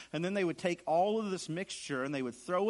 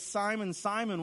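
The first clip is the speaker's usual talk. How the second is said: raised-pitch name call, repeated; calling for attention; 5 semitones higher than usual. Acted. Jesus repeats the disciple's name, calling for attention. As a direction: say the name to get his attention. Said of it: "trying to get our attention".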